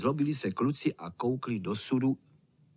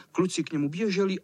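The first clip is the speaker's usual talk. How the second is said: usual speaking voice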